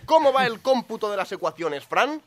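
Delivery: overacted crisis, shouting for the answer; hammed-up drama. Mock dramatic crisis scene.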